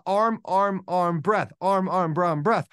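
even, repetitive swimming chant; rhythmic stroke count. Retold or imitated. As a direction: tick off each stroke in a steady beat. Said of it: "I was focused on the rhythm".

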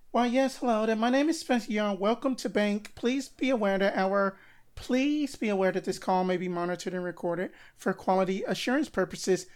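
prim, fast call-centre voice; phone greeting. Shown as a demonstration. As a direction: read the script like a receptionist. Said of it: "I said it like this".

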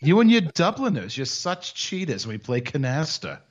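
mock-scolding New York Jewish accent. Co-host griping about Dubliners at cards, Jewish accent. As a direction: complain in a put-on Jewish accent. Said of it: "Jewish and Irish".

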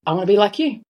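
choked-up, halting retelling with long pauses; real emotion breaking up the phrases; getting emotional. Real, not acted. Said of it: "Sorry, I'm getting a bit emotional".

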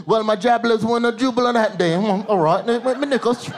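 mock posh British interview voice; lightly hammed British actor accent. Black British actor in interview, light British accent. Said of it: "Then you see him two weeks later in the interview".

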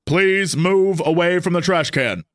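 slowed, even robot announcement; lightly voiced police robot. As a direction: read it out like a patrol robot. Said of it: "a voice came out of this thing and it said".

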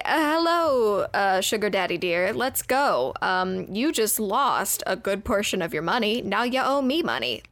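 coy gold digger purr; breathy vintage purr. Retold or imitated. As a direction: sweet-talk a rich old man. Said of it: "She's like".

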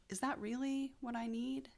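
hushed, gentle self-talk; quiet inner voice. Retold or imitated. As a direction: softly talk yourself down.

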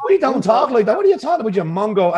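high-pitched mock disbelief; mock indignant. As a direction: scold them in playful, high-voiced indignation. Acted retort to fake-accented visitors.

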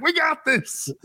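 high, cocky mock fan voice; mock fan confidence. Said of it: "everyone's like".

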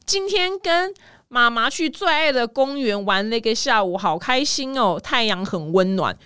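put-on slow, sing-song kid narrating a post; mock child voice. Mom imitating her child, slow childlike voice. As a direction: read it like a little kid. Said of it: "妈妈分裂成小孩，变成小孩口吻".

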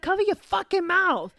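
loud, high-pitched mock outrage; flipping out. Friend scolds her own mom for yawning, flipping out. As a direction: imitate a friend losing it, loudly. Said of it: "this bitch will go ape shit".

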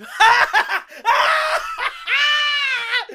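high screaming cackle; shrieking laugh. Real, not acted. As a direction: laugh until it's a shriek.

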